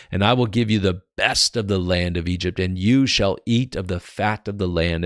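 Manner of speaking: lively, emphatic Bible reading; scripture reading. Acted. Preacher reading Pharaoh's command to Joseph, emphatic scripture reading. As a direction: read out a king's command.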